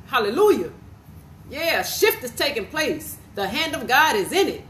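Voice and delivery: rising, fervent preacher cadence with hallelujahs; prophetic preaching. Acted. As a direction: declare it over the people like a prophet. Prophetic word preached to listeners.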